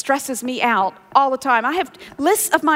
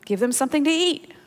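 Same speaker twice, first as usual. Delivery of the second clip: calmly; faster than usual. Retold or imitated. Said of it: "And Jesus says calmly".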